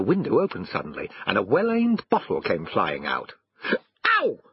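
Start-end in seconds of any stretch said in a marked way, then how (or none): 4.2-4.4 a quick "ow" as the dog; yelping dog. A narrator's reading. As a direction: dodge it with a little yelp. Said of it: "said the dog, jumping aside".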